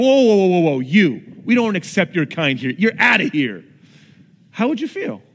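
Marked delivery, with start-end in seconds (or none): 0.0-3.6 loud mock bouncer turning someone away. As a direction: block the door like a hammed-up bouncer.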